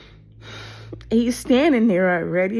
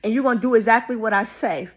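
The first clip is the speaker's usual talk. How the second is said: retold anger. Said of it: "he got angry at me".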